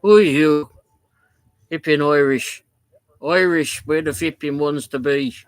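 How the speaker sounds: loud, confrontational Northern Ireland accent, easing off at the end; aggressive Northern Irish. Shown as a demonstration. Streamer imitates how Northern Ireland people talk, aggressive Northern Irish. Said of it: "when you go to Northern Ireland, they're like".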